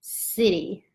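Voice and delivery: "siri" said quickly, not held; short siri. Shown as a demonstration. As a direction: say "siri" short, two light syllables. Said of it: "it's a short siri".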